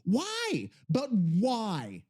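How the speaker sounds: baffled and fed up; exasperated. Real, not acted. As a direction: wail the question in real frustration. Exasperated by malfunctioning voice generator.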